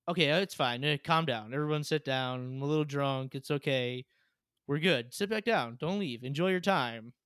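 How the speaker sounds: nervous, hurried calming of guests; flustered host insisting all is fine; panicked reassurance. Retold or imitated. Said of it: "like, freaking out".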